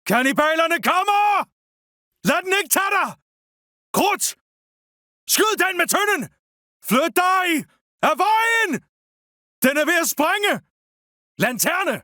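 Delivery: urgent soldier's warning cry; shouted battle warning. Acted. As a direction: call out danger to the troops.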